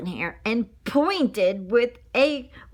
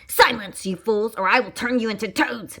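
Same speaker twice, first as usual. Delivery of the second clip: warning. Acted. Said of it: "Menethia warned the wolves".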